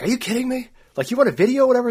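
high-pitched mocking imitation of his girlfriend; girlfriend, incredulous. Girlfriend mocking his filming at dusk, high incredulous voice. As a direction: squeak it out like she can't believe him. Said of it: "And she's like".

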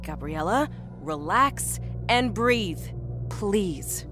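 slow, pleading coaching; composure cracking. A narrator's reading. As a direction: plead gently while barely keeping calm. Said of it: "her composure beginning to crack".

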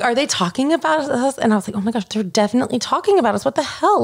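high, incredulous quotes; mock disbelief. Telling cohost about flight call-out, high incredulous. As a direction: act out the outraged disbelief.

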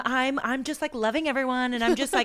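lightly mimicked happy babble; fast-talking, energetic. Imitating her high friend at the club, energetic chatter. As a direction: bubble over with love for everyone. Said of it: "so fast talking and energetic".

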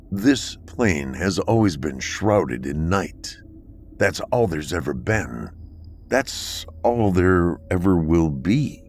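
slow, cold and measured guardian; a lightly voiced grim keeper, speaking slowly; stern bunker dweller. Akron's slow, measured replies.

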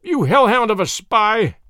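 loud, high, drawn-out angry cry; screamed accusation. Acted. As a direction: hurl it as a furious accusation. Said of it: "he screamed".

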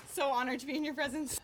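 mock reverent.

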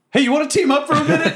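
high, fast holler; yelled offer. Acted. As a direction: shout across to possible allies. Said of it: "and I just yell".

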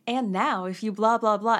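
chirpy hard sell ad read; commercial voice. Retold or imitated. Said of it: "I'm doing my commercial voice".

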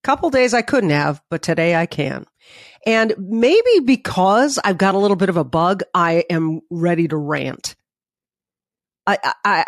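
stuffy nose from covid; blocked nose, nasal tone. Real, not acted. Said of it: "If I sound a little nasally".

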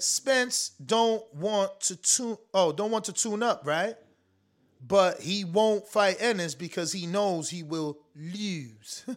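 lightly put-on Baltimore accent, drawn out; hint of a Baltimore drawl on the vowels. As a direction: lean into Baltimore vowels, unhurried. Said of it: "In my Baltimore voice accent".

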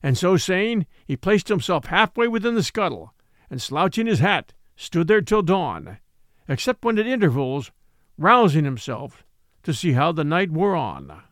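measured storyteller's read; story narration. A narrator's reading. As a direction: tell the tale steadily, like an old sea yarn. Narration resumes.

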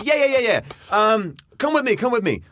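high, gushing you're hilarious; eager high guy. Retold or imitated. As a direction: pump him up in a high excited voice. Same excited guy.

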